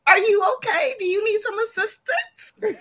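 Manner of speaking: high, loud teasing concern; worried parent. Pretend. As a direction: fuss over her like a worried mom. Mock concern for Janasia.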